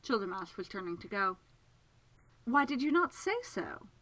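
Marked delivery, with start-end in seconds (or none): 2.4-3.9 high-pitched, accusing question; demanding. Acted. Miss Absalom turns on Segundus accusingly, demanding. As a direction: demand it as if he is at fault. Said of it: "Miss Absalom demanded".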